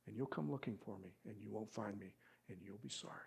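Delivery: put-on sulky child. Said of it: "he says".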